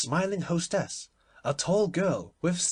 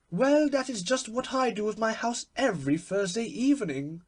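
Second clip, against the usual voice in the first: laughing cry; 10 semitones higher, 4 dB louder than usual. A narrator's reading. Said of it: "cried Lady Windermere, laughing".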